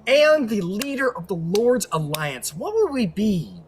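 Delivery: sway the jury with pomp; a lawyer addressing the jury, hammed-up and grandiose; courtroom closing speech. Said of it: "I can't believe I'm doing this shit".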